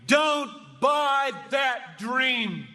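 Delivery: very slow, pleading appeal; slow heartfelt plea from the pulpit; earnest plea. Real, not acted. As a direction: drag it out as a plea. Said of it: "I plead with you".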